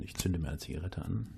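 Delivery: low, relaxed storyteller voice; deep relaxed voice. Pretend. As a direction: settle in and speak low and easy. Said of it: "mit tiefer Stimme eine Geschichte zu erzählen".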